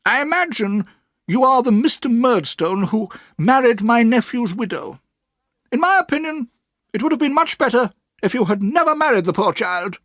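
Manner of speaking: put-on high, firm old-lady voice; high, earnest old aunt. A narrator's reading. Aunt tells the boy about Mister Dick, earnest and firm. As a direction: stand up for her friend.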